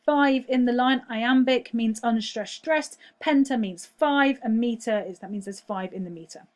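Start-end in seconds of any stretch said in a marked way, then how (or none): 1.1-3.0 teacher slowing down to explain "stressed"; slow explanation. Shown as a demonstration. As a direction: spell out the stress pattern slowly. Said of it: "Unstressed syllable followed by stressed syllable".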